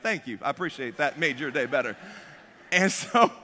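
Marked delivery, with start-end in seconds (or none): 0.0-1.9 low, soft, deadpan thanks; subdued thanks. Retold or imitated. Driver replying to amused officer, subdued thanks. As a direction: mumble it low, half-hearted.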